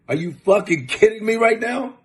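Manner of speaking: normal talking voice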